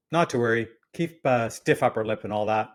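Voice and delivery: put-on understated posh British accent; lightly put-on upper-class British. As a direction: brush it off as a British gent. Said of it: "accent that I had been assured was very upper class Brit".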